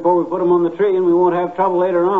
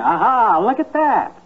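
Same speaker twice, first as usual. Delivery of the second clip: excited; 6 semitones higher than usual. Real, not acted. Tree lights finally work.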